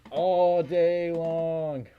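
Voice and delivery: very slow, stretched-out words; long held vowels, stretched like the tedious hours; drawn-out emphasis. Real, not acted. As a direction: drag each word out to sound endless. Stresses tedium of trucking.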